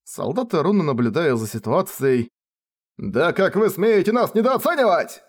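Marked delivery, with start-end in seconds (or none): 3.0-5.2 high, angry shout; soldiers shouting. A narrator's reading. Soldiers shouting at the pair, angry high shout. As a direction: yell out the insult. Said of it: "Солдаты громко закричали".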